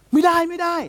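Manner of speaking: high-pitched mock alarm; retold alarmed warning. Reacting to the other side's document, high mock alarm.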